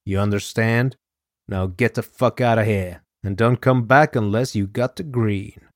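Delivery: a hint of a menacing gangster; angry mob boss.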